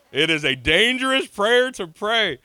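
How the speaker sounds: preacher's slow emphatic warning; slow emphatic repeat. Acted. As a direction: drive each word home. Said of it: "Has anybody ever prayed that prayer?".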